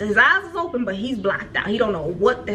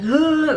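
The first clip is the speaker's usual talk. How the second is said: higher-pitched mock groan of pain; imitated pained yell; 7 semitones higher, 4 dB louder than usual. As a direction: imitate someone hurt crying out. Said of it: "he basically yelling".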